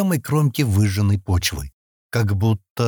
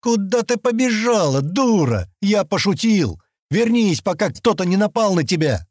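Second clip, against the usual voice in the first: shouting after her; 10 semitones higher than usual. A narrator's reading. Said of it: "крикнул он".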